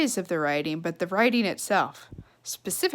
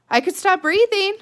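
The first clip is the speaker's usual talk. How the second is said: put-on higher, louder earnest girl; girl's offer; 9 semitones higher, 6 dB louder than usual. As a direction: offer it in all seriousness. Flora's deadpan offer.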